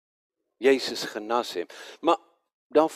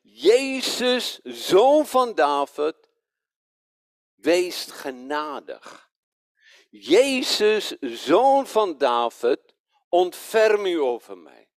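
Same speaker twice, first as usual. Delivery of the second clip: raised, drawn-out cry for mercy; calling out; 3 semitones higher, 4 dB louder, slower than usual. Retold or imitated. Blind man calling to Jesus as he passes, calling out. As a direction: call out in a pleading appeal, stretching the words. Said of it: "hij begint te roepen".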